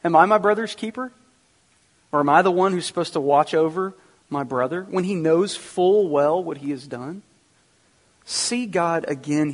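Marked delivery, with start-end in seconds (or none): 0.0-1.1 louder, higher mock defiance, stress on "my"; defiant retort. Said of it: "disrespect ... in this man's voice". 2.1-4.8 defiant retort. Retold or imitated. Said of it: "disrespect ... in this man's voice".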